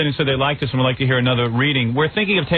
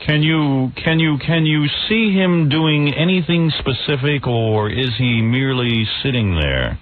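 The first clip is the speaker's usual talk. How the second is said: Peter Jennings; 2 semitones higher than usual. Acted. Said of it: "me as Peter Jennings".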